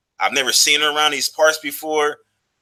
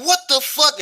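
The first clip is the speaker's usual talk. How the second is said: high, sharp indignant cry; she's furious he dumped her drink; outraged; 14 semitones higher than usual. Retold or imitated. Woman after her drink is poured out, high outraged yelp. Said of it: "she was cussing".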